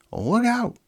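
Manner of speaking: high, loud sudden yell; urgent high alarm; warning cry. Acted. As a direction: shout a warning to the team.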